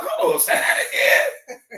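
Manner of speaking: very high, drawn-out squeal; acted squeaky amazement; excited interruption. Acts out his excited reaction.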